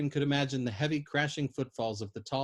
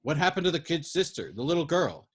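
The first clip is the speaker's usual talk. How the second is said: louder, urgent question; raised voice; 5 semitones higher, 5 dB louder than usual. Acted. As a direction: raise your voice to get through to her. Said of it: "He raised his voice".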